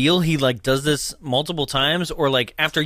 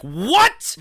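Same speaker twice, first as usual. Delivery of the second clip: high, sharp mock "what"; upset outburst; 10 semitones higher, 3 dB louder than usual. Santa reacts to the fat joke, mock outrage. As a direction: imitate an offended yelp of disbelief. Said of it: "he's so upset".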